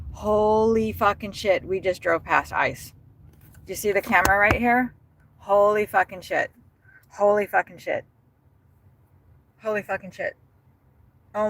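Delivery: can't believe what he's seeing; freaking out. Real, not acted. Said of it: "I'm totally freaking out right now".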